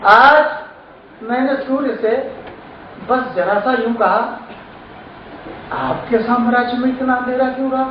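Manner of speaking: phrased verse with pauses and a ringing first word; poem recitation. Acted. Poet asks the sun about darkness, declamatory recitation.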